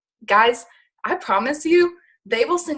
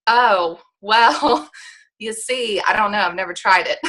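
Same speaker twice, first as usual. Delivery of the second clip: awkward laughing reply. Retold or imitated. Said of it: "I'm like".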